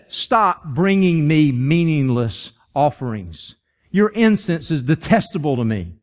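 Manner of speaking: slow, emphatic rebuke as God; measured divine reprimand; stern rebuke. Acted. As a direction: deliver each word slowly, fed up. God's rebuke, acted in sermon.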